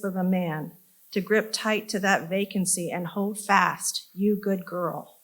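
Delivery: measured, emphatic poem recital; poetry reading. Acted. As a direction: push each line's opening, then let it fall. Reads second poem aloud.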